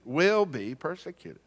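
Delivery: "Will" drawn out and emphasized, the rest lighter; stress on WILL. Real, not acted. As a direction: lean on "Will" as a certainty. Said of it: "Not might".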